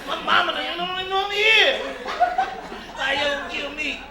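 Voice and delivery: mock crying. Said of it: "brothers start crying".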